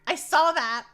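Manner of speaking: mock mad. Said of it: "You wanna see me actual mad?".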